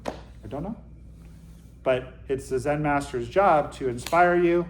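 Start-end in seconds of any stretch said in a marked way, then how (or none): 0.1-0.8 much softer, trailing up like a question; fading questioning whisper-soft. Shown as a demonstration. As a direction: let it fade to almost nothing. Repeated, fading away.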